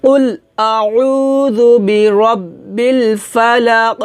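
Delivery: recitação lenta e alongada, com eco no fim de "ফালাক"; recitação com qalqalah. Shown as a demonstration. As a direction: estique as vogais e rebata o ক final de "ফালাক". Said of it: "এভাবে বলবো".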